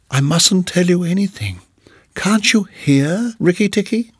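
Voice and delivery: high, plaintive pleading; timid muskrat, fearful. A narrator's reading. Muskrat hinting that Nag is near, fearful. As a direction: voice a scared little muskrat up high.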